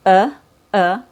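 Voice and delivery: short neutral uh, mouth barely open; schwa sound demo. Shown as a demonstration. Teacher demonstrating the schwa. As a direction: push out a weak uh. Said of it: "which sounds like this".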